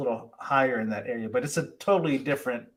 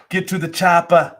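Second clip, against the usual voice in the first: hammed-up movie quote; 3 semitones higher, 8 dB louder than usual. Co-host throws a film catchphrase at John, hammed-up. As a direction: lightly imitate an action-film catchphrase. Quoting a famous film line for fun.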